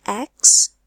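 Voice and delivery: "extrovert" broken into ex, tro, vert with gaps; syllable by syllable. Shown as a demonstration. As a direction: count out the three syllables of "extrovert". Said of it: "three syllables".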